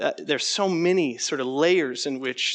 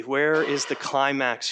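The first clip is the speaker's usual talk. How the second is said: mock laboring; slower than usual. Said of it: "they labor to say".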